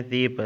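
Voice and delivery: ज़ीप said "zeep" with a "z" and an "ee" vowel; teacher's answer, ज़ीप pronounced "zeep"; Persian pronunciation. Shown as a demonstration. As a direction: model ज़ीप as "zeep", kasra under the ze. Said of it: "ज़े के नीचे कसरा पढ़ना है".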